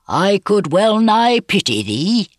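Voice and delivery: high, slow swell of admiring pity; thrill of admiration. A narrator's reading. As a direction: let admiration lift the voice, drawn out. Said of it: "unable to restrain a thrill of admiration".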